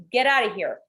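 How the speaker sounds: imitated protective mother. Mother warning daughter away from boyfriend, mock dismissal. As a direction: send them off as the mother.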